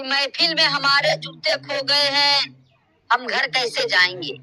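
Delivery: measured, drawn-out couplet delivery; slow shayari recitation. Acted. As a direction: recite it slowly like a poet on stage. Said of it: "चलो, मैं भी शायरी कर लेता हूँ". (धीमे अंदाज़ में शायरी पढ़ना)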